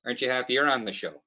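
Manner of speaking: put-on light Canadian accent, upbeat; Canadian boss, pushier. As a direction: sell the Tim's card with folksy cheer. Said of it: "Canadian side".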